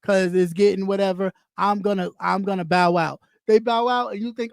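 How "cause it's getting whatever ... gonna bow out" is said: lightly voiced quitter, lower and subdued; understated mock announcement of leaving; imagined channel quitter. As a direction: quote someone resigning, a touch low. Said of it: "As if somebody says".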